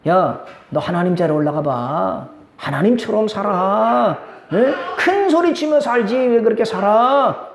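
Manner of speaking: Satan egging someone on, stretching the words and climbing in pitch; tempting Satan. Acted. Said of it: "우리를 뭐라고 유혹하는지 아세요?".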